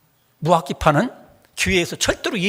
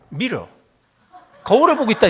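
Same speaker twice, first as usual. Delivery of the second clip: laughing through the quote; 2 semitones higher, 4 dB louder than usual. Retold or imitated. Pastor retelling the American's answer while laughing.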